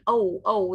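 the "O" of toad sounded on its own; careful teacher's "O", pronounced as in toad; isolated vowel demo. Shown as a demonstration. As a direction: model a clear long "O", twice. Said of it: "The sound in the middle is O".

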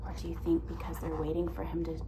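soft whisper, building tension; hushed suspense. Real, not acted. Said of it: "hushed suspense to children".

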